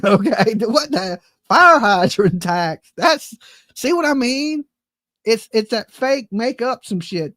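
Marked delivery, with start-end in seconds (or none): 0.6-2.9 slow disbelief. Real, not acted. Disbelief, slowed.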